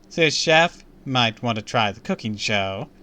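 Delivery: a clerk's upbeat brush-off; receptionist voice. Acted.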